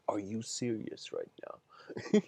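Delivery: slow, stunned disbelief; a stung friend's slow, stunned question; shocked disbelief. Retold or imitated. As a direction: ask it like you can't believe the betrayal. Frog stung, turns to friend.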